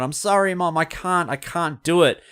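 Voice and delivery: high, crying cry of despair; tearful yell. Retold or imitated. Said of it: "she starts to cry, and she yells out".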